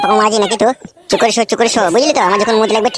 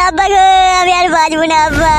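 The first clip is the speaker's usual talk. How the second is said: mock wailing; 5 semitones higher than usual. Wailing to father.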